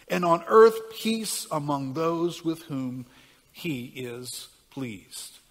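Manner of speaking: slow, solemn Bible reading with swells; scripture reading. Acted. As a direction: read the angel's words like a proclamation. Reads Luke's Christmas passage.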